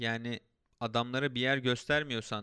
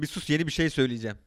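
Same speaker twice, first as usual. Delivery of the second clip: laughing loudly, faster; 2 semitones higher, 8 dB louder, faster than usual. Real, not acted. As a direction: blurt it out through laughter. Laughing, much louder.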